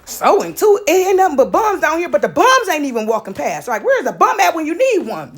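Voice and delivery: high-pitched, exasperated panic; panicking. Retold or imitated. Daughter told to sow into someone, mock panicking. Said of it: "And so I'm panicking".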